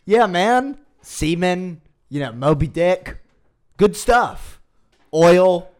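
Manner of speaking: high, loud excited yelling. Real, not acted. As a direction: hype it up like a fan. Hyped about Moby Dick.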